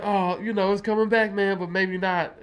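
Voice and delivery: lightly put-on, noncommittal dodge; Lakeith Stanfield's character. Film character putting off returning a jewel, lightly imitated stalling. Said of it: "Where he's like".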